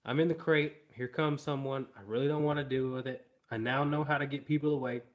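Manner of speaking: lightly voiced dog's thoughts; dog thinking aloud. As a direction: speak as the lazy dog. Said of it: "this is him thinking out loud".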